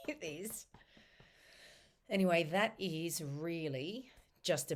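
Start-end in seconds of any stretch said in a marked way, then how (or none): 0.1-0.7 whisper. Real, not acted.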